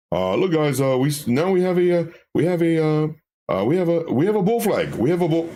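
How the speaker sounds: mock a stuttering rookie trader; mock eager newbie. Mocking a chatter who just learned bull flag, eager stammer. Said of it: "Did you just learn that word, bull flag?".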